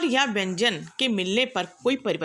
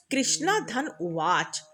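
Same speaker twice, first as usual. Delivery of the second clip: slow split; slower than usual. Shown as a demonstration. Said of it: "इसका विच्छेद जब हम करते हैं".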